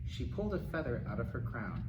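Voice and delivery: usual speaking voice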